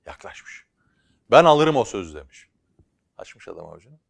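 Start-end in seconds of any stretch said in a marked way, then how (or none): 1.3-2.1 calling out. Acted. Buyer calls out to seller.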